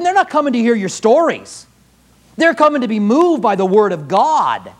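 impassioned pulpit exhortation; forceful preaching. Real, not acted. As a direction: press the charge home to pastors.

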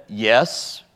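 low, hesitant mock admission; uncomfortable yes. Man answering the evangelist's question, uncomfortably. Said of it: "but uncomfortably".

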